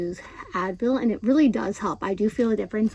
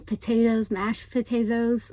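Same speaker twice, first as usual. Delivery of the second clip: tongue tied on "potatoes" behind aligner trays; lisp from aligners. Real, not acted. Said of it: "my tongue gets tied behind".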